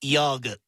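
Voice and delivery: "Yogurt" said teasingly as "yoggut"; needling, low-pitched "Yogurt", like "yoggut"; odd pronunciation. Acted. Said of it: "If you say it like that".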